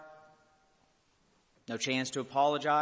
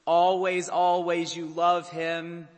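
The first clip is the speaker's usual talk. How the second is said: higher, louder, slow on "Always"; rising emotional refrain; impassioned refrain; 5 semitones higher, 8 dB louder, slower than usual. Acted. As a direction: swell on "always".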